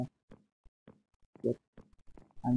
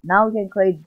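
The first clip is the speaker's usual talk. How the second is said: much higher, louder joyous yell; ecstatic shout; 7 semitones higher, 8 dB louder, slower than usual. Real, not acted. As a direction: yell the win to viewers. Diamond obtained again, celebrating.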